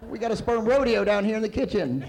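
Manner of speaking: high, excited call; mock alarm. Reporting the kitchen infestation upstairs, mock alarm. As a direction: call out the disaster, still worked up.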